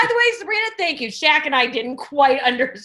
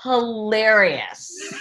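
drawn-out hilarious; much slower than usual. Real, not acted. Host praising his Instagram videos, "hilarious" drawn out slowly. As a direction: stretch "hilarious" very slowly with a rising lilt. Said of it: "are hilarious".

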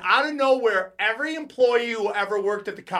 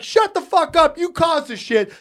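retold angry retort; 9 semitones higher than usual. Retold angry retort in fight story.

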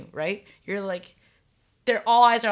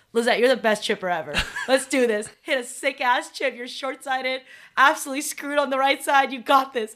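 pep talk; 4 semitones higher than usual. Retold or imitated. Retold pep talk to partner.

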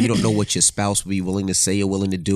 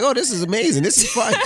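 mock delight; 11 semitones higher than usual.

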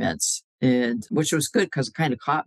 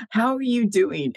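high, bright and friendly; friendly greeting; 8 semitones higher than usual. Retold or imitated. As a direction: cheerfully ask how they are. Reaching out a hand.

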